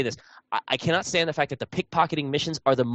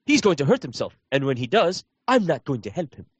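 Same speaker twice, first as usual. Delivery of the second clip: mock NPC bystander. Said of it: "mix up the voice acting".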